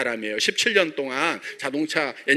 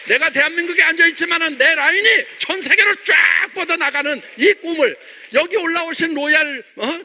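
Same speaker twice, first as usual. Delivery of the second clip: rousing shout; 10 semitones higher, 5 dB louder than usual. Real, not acted. Rallying the audience to dream.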